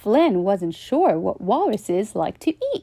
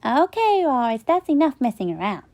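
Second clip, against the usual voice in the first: put-on bossy little boy; 5 semitones higher, faster than usual. Flynn bossy.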